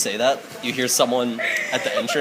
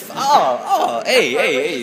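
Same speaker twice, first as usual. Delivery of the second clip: alarmed protest; 3 semitones higher, 4 dB louder, slower than usual. Acted. Man with pinched finger protests.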